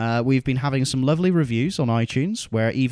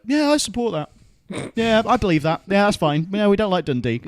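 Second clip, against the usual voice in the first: imitating other Scots; 5 semitones higher than usual. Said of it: "will be like".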